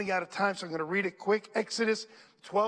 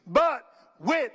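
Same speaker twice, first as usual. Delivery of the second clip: loud call to read along; 6 dB louder than usual. Shown as a demonstration. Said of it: "read the next part with me".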